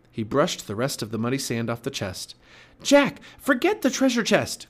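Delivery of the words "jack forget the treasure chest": very high, loud urgent cry; Annie crying out. A narrator's reading. Girl begging the boy to leave the chest, crying out. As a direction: shout to tear him away. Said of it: "cried Annie".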